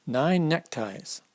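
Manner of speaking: each word drawn out slowly; slow repeat. Shown as a demonstration. Reader repeating the words to a child, slowly. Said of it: "repeats book phrase slowly".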